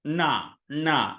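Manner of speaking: Na said with the tongue curled back; curled tongue heavy Na, twice; retroflex na. Shown as a demonstration. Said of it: "our retroflex nasal here".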